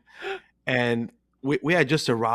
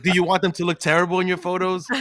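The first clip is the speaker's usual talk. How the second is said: retold rant; 7 semitones higher, faster than usual. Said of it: "he went on this rant".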